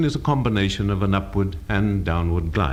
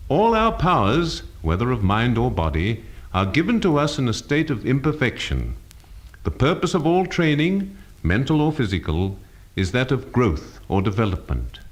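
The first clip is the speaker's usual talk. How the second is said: emphasis by pitch; 3 semitones higher than usual. Shown as a demonstration. Teacher showing pitch emphasising a phrase, varied pitch. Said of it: "Notice how difference of pitch can help to emphasize".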